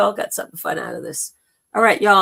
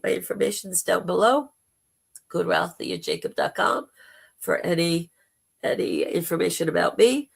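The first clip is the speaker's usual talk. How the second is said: hoarse, gravelly throat; rough, gravelly speaking voice. Real, not acted. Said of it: "putting up with my gravelly voice".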